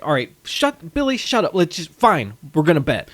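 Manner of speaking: mildly exasperated imitation; fed up. Sidney giving in to Billy's nagging, mildly fed up. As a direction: give in with a touch of mock exasperation. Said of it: "he's just fed up".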